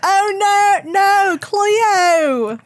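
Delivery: high, squealed "Oh no, no, Cleo"; TikTok imitation. Guest quotes the viral TikTok, high and squealing. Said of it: "Have you guys seen the".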